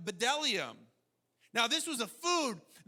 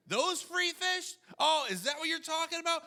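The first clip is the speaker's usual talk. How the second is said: high, laughing mock surprise; preacher laughs at the Israelites' complaint, mock amazed; laughing sarcasm; 6 semitones higher than usual. Real, not acted. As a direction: laugh it off as ridiculous. Mocking with a laugh.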